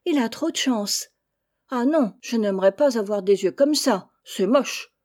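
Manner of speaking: put-on a child sneering at a sibling; mocking chick. Chicks mock the new chick.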